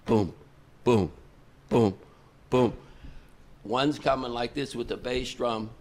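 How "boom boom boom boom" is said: mock drumbeat. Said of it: "we hear".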